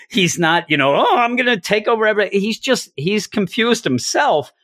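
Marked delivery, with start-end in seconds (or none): 0.9-2.4 quick, higher mock gloating; lightly mocked scheming villain. Host shows what Loki is not doing, mock gloating. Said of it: "He's not laughing".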